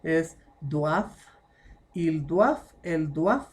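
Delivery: teacher drilling doivent; careful pronunciation. Shown as a demonstration. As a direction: model doivent as "dwav", final -ent silent. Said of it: "tener cuidado con esta, la pronunciación".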